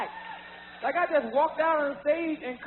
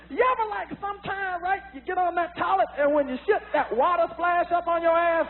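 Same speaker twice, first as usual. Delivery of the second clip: Richard Pryor style. Retold or imitated. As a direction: do it like a fifteen-year-old copying Pryor. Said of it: "sounded like Richard Pryor jokes".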